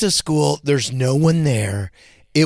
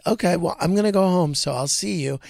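light, higher sing-song see-you-later; breezy mock goodbye; 6 semitones higher, faster than usual. Dad breezily telling his screaming son he's heading home, sing-song. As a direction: sound like you really are leaving, cheerily.

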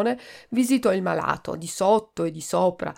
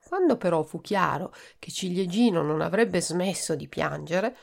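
plain reading voice

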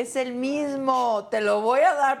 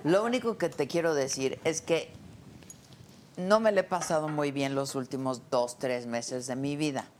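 a heartfelt lower thank-you; sincere; 5 semitones lower than usual. Real, not acted. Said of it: "ya hablando en serio".

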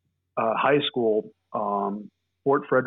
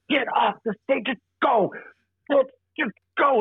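hushed director urging; 11 semitones higher than usual. Retold or imitated. Director waving them off stage.

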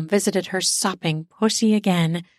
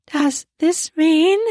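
panting question; breathless; 8 semitones higher, 4 dB louder, slower than usual. Acted. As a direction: gasp it out, short of breath. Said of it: "panting too heavily".

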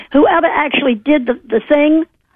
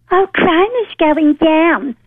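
slow, higher-pitched mock reassurance; mock quote; 4 semitones higher, slower than usual. Caller mimics the mayor downplaying crime, slow mock quote. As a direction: draw it out, mimicking a dismissive official. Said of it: "wants to make it sound like".

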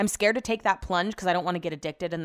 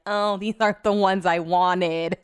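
mock whinging; 5 dB louder, slower than usual. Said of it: "likes to freaking whinge and moan".

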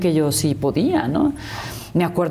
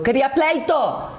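mock pouting; 7 semitones higher than usual. Imitating her own angry self.

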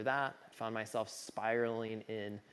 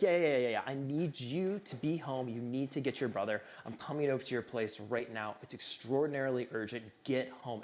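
frantic caller; 2 semitones higher, 5 dB louder than usual. Retold or imitated. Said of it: "He sounds really frantic".

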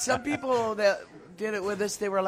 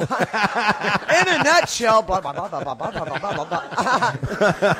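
mock rambling. Shown as a demonstration. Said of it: "me being in a nutshell".

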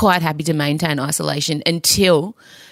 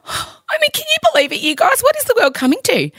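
higher, exaggerated mock horror; mock outrage. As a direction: clutch your pearls, hammed-up shock. Mock horror at daughter's request.

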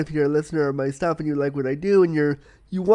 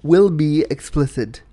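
announcer voice; 3 dB louder than usual. Acted. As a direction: read it like an official notice. Content warning read.

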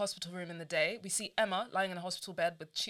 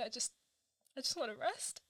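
fading dying voice; 2 semitones higher, 6 dB quieter than usual. Acted. Dying Emma retake.

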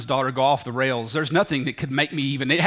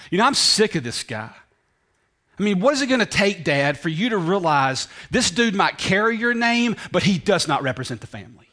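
resentful rant; 4 semitones higher than usual. Acted. Older son's rant voiced.

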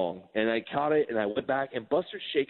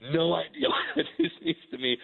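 laughing retelling; 4 semitones higher than usual. Retold or imitated. Retold retort repeated, teller laughing.

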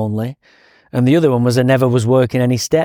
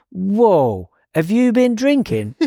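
higher, startled mock cop voice; imitating a stunned cop catching a whiff of booze; surprised cop; 8 semitones higher, slower than usual. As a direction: retell the cop's shocked double take. Cop smells alcohol on him.

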